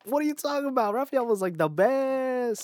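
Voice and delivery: high-pitched, outraged protest; incredulous and protesting; indignant disbelief. Real, not acted. Protests a slight on Raphael.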